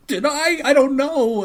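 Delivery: high, panicked squeal of self-doubt; freaking out. Retold or imitated. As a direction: mimic someone in a fluster. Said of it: "each one of us is freaking out".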